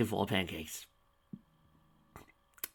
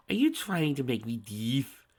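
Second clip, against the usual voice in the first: slow taunting whisper; mocking whisper; 4 semitones higher, 3 dB louder than usual. A narrator's reading. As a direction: hush it out to mock him. Villain mocks yelling up close.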